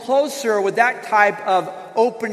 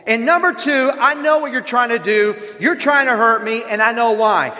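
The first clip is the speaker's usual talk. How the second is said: pointed, blaming delivery; husband criticizing his wife, mildly hammed-up accusation; critical accusing tone. Shown as a demonstration. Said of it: "Criticizing says this".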